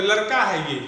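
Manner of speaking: लड़का said as लरका; mimicked mispronunciation of लड़का with र; ड़ turned into र. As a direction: imitate the mistake, plain र in लड़का. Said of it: "लड़का को लड़का कहते होंगे".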